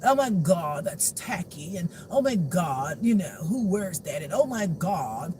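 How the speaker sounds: mock their drawn-out exclamations; a hint of affected disdain. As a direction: lightly imitate a snooty critic. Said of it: "to talk like this".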